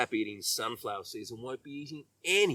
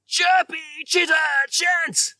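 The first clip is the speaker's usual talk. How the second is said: very high, loud, slow cry of a furious little bird; furious Robbie Robin; 6 dB louder than usual. Acted. Robbie yells his chant at Jasper Jay, very high and loud. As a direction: screech it at the intruder. Robbie still angry at Rosie.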